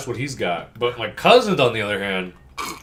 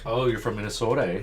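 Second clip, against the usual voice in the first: put-on Minnesotan accent; faster than usual. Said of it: "Like Fargo speak".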